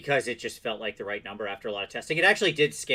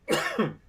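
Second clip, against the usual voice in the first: sharp choking cough; coughing up water; 12 semitones higher than usual. Real, not acted. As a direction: cough from drink down the wrong pipe. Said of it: "it went down the wrong pipe and now I'm dying".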